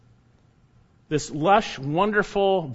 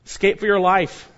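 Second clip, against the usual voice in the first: "Escape for your life" punched out loud with weight on "your"; emphatic command; 3 semitones higher, 4 dB louder than usual. Shown as a demonstration. Preacher repeating the angels' command to his congregation, emphatic. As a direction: hit "your" hard and drop at the end. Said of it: "Quite simple and emphatic and quite telling".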